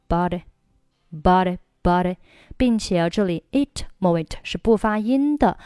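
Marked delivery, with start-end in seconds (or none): 0.1-2.2 BOUGHT IT run together, middle t voiced like a d; linked bought it. Shown as a demonstration. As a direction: link bought it, leave the final t silent. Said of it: "bought和it连读成了". (bought it 连读，t 浊化)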